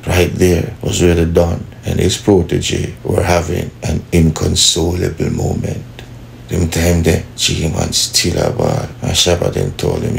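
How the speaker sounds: soft, measured English storytelling; story narration. A narrator's reading. Narrator recounting the Don's mercy, soft measured storytelling. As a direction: tell it slowly like a dramatic tale.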